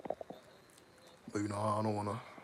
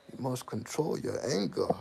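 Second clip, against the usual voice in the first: imitating son; 4 semitones higher than usual. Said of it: "That's how he talk".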